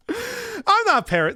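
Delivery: high, slow indignant squeak; high protest. Real, not acted. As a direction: squeak it out defensively. Protesting parasocial accusation.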